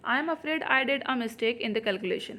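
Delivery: slow, word by word sentence reading; slow dictation read. Shown as a demonstration. Teacher reading the exam question to students, slowly. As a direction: spell the sentence out for the class.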